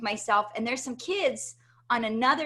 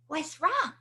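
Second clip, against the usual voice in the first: higher-pitched voice of a worried mom; concerned mother; 6 semitones higher than usual. Retold or imitated. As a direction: ask like a mother to her upset child, retold. Retold concerned mother greeting crying child.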